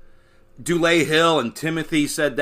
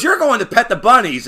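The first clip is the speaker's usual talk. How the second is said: exaggerated cartoon intonation; 7 semitones higher, 5 dB louder than usual. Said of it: "He goes".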